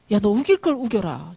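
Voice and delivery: exasperated mother. Acted. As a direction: snap at your stubborn child. Mother loses patience with stubborn son. (답답해서 나무라는 엄마처럼)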